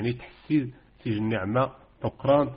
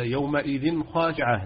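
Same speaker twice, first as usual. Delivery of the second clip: recited example; 3 semitones higher, slower than usual. Shown as a demonstration. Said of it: "بالنسبة كذلك".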